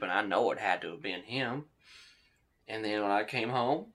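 put-on drunk suspect's voice. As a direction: play the bitter drunk telling his story.

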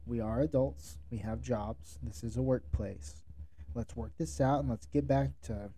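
calm, measured mediator voice; steady, composed reassurance to settle a dispute. Shown as a demonstration. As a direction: explain it evenly and calmly, slightly softened. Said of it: "just in a very calm voice".

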